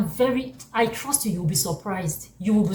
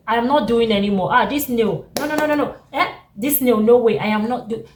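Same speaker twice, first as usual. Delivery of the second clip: mock refusal; 5 dB louder than usual. Jesus imagined refusing, loud.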